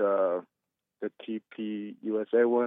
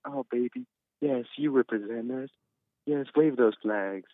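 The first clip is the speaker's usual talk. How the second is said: mocking mother-in-law; 2 semitones higher, 4 dB quieter than usual. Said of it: "she's like".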